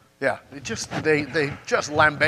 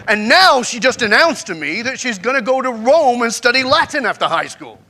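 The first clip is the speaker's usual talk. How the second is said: louder, exasperated ranting father; 3 semitones higher, 6 dB louder than usual. Retold or imitated. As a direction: rattle off the list, fed up and loud. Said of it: "He says".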